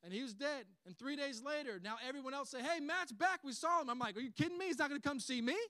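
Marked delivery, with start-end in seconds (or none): 2.6-3.9 loud, high excited report; excited announcement. Acted. Friends telling him his brother is back, excited. 4.2-5.5 high, loud indignant questions; upset disbelief. Acted. Man hearing his brother visited others, upset disbelief. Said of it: "I'd be upset too".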